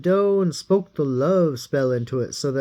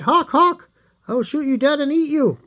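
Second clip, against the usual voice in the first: hungry threat; 9 semitones higher than usual. Acted. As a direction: shout the threat, then rush it fast. Hungry Ivan threatens the hawk.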